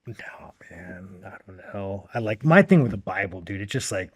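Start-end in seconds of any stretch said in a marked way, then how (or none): 0.1-2.1 hushed whisper. Real, not acted. Asked about death, answers hushed.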